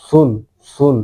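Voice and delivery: সুন with the Arabic letter Swad, not Sin; careful Swad at the start of সুন; Swad pronunciation. Shown as a demonstration. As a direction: demonstrate সুন with a Swad sound. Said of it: "এটা সোয়াদ দিয়ে".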